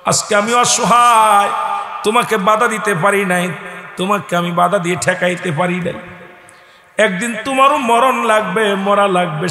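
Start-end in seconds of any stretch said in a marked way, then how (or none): none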